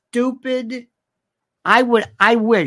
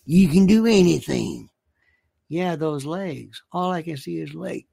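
lightly hammed-up Southern accent; Southern affectation; 2 semitones lower than usual. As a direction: read it in a put-on Southern voice. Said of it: "I get to read it in this voice".

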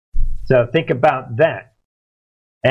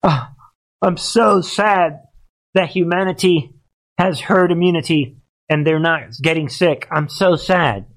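mock sad Gates; 4 semitones higher than usual. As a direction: ham up a sorrowful sigh, mocking Gates. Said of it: "read carefully what he said".

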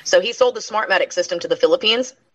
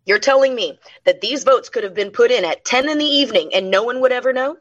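raised, indignant retold rant; mock outrage, pitched up; angry outburst; 5 semitones higher than usual. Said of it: "that representative cussed him out and said".

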